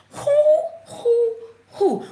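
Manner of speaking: high, drawn-out "hoo"; excited whoop. Real, not acted. Moved by the scripture, high whooping. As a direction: let out repeated high hoots. Overcome by the reading.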